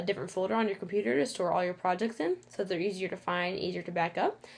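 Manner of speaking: lisping on the s sounds. Real, not acted. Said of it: "I'm sorry for my lisp".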